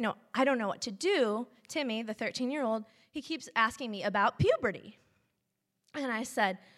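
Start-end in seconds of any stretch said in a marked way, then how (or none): none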